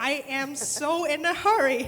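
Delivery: laughing while playing a rushed client; laughing mock client. To the panel, mocking a client in a hurry, laughing. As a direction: giggle through a fake hurry.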